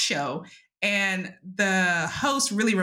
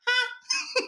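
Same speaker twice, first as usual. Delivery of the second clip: surprised. Retold or imitated. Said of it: "She's like".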